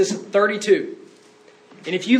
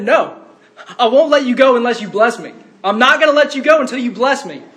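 raised, louder defiant plea; insistent refusal; 3 semitones higher, 4 dB louder than usual. Retold or imitated. Jacob wrestling God, refusing to let go, insistent. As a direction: dig in and refuse, pitch climbing.

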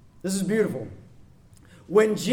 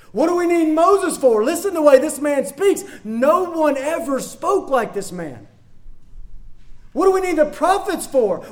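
imagined astonished listener; 5 semitones higher than usual. Retold or imitated. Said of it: "you might have been tempted to think".

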